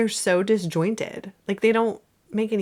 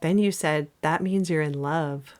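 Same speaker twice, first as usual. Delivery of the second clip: Zooey Deschanel line reading; 4 semitones lower than usual. Acted. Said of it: "And I'm gonna be Alma".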